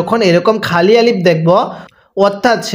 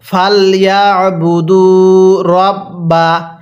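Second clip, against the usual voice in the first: very slow, drawn-out melodic recitation; slow chanted tajweed reading; Quran recitation; much slower than usual. Shown as a demonstration. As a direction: recite each syllable long and sung. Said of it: "মিলিয়ে পড়ুন".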